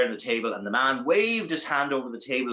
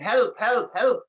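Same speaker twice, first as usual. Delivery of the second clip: higher, louder trapped plea; panicked cries for help; 8 semitones higher, 4 dB louder, much slower than usual. Acted. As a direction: cry out from the coffin. Tom trapped in coffin.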